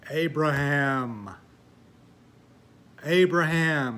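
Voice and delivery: slow, loud, booming call; God calling Abraham from nowhere, loud and slow. Retold or imitated. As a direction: call out the name slowly like a voice from heaven. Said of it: "this voice came from nowhere".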